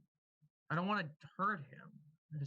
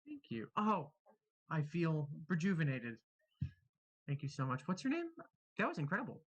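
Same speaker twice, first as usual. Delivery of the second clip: gushing thanks. Acted. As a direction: gush like you were just brought back. Revived character gushing gratitude.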